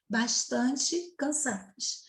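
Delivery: chuckle, then give the right "Bastante" gently; relieved correct take with a laugh; laughing correct form. Shown as a demonstration. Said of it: "Aqui é invariável".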